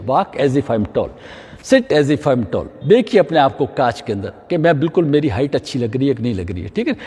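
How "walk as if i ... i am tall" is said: slow, low repeated mantra; slow instruction. Shown as a demonstration. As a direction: drill the rule in slowly. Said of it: "ये मेरी height अच्छी होगी". (धीमा, नीचा दोहराया गया निर्देश)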